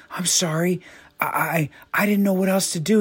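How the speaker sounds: breathless whispered apology, high; whispered pleading. A narrator's reading. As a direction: whisper the sorry, then rush the rest. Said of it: "he pleaded".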